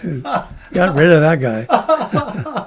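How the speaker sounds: slow, chuckling remark; laughing. Real, not acted. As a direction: laugh it out slowly. Laughing comment.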